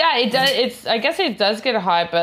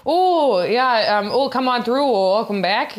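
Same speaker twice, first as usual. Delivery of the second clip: friendly Canadian; 3 semitones higher than usual. Retold or imitated. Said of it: "how they were talking".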